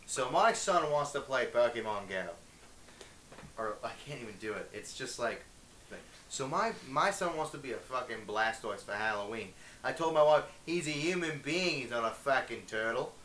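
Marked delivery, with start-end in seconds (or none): 0.0-2.2 put-on Australian accent. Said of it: "the Australian accent". 6.3-13.1 put-on Australian accent. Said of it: "Vincent Marcus from Vine did a pretty good one".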